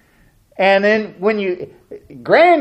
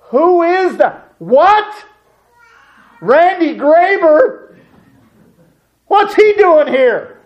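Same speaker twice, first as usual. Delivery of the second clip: much higher, louder and slow, alarmed; startled panic; 12 semitones higher, 6 dB louder, slower than usual. Retold or imitated. Host panicking at an unexpected visitor at the door, much higher, louder and slow. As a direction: gasp it out, caught off guard.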